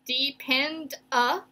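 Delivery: "Depend a bull" slow, long pause before "bull"; syllable by syllable. Shown as a demonstration. Teacher writing out the breaks, "Depend a bull" in slow syllables. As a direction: sound out "Depend a bull" in spaced pieces. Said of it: "Four syllables".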